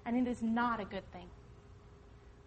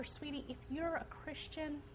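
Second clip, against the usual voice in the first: gentle to daughter; 3 semitones higher, 6 dB quieter than usual. Retold or imitated. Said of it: "So I can tell her".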